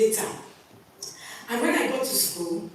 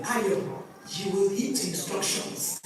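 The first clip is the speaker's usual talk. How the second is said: sleepy husband; 4 semitones lower, 5 dB quieter than usual. Retold or imitated. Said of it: "my husband opened my eyes and said".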